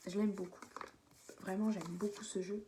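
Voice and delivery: talking through hiccups; hiccuping between words. Real, not acted. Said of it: "Je suis désolée, j'ai le hockey".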